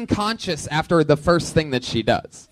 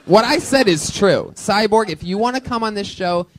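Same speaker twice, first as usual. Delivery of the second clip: stiff robotic cyborg voice; cyborg impression; 4 semitones higher than usual. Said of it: "when I do a cyborg impression".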